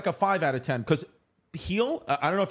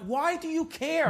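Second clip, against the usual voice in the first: mock exasperated; 10 semitones higher, slower than usual. Mocking people stressed out.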